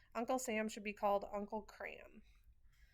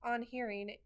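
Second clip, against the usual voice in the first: grandma shouting; 2 semitones higher, 4 dB louder than usual. Retold or imitated. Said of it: "my grandma shouts at Grandpa".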